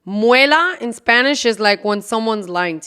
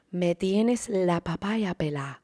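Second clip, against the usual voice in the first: slow, hushed, put-upon elder voice; exasperated elder; 3 semitones lower, 9 dB quieter than usual. Retold or imitated. Imitating a tired mother quoting a Spanish phrase, slow and hushed. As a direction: sigh it out like a worn-out mom.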